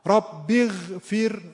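اغفر slow, with a thin, emptied-out ghayn; ghayn without tafkhim. Shown as a demonstration. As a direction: make the غ in اغفر wholly light. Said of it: "خالی از تفخیم شد".

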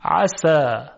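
عسى with a light, thin sin, no heaviness; thin sin sound. Shown as a demonstration. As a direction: say عسى with a plain Persian sin. (عسى با سین نازک و ظریف)

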